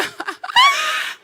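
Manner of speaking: very high-pitched mock squeal. Woman greeting her late friend, mock squeal. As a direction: let out an exaggerated shrieky greeting noise. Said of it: "você tá lá assim".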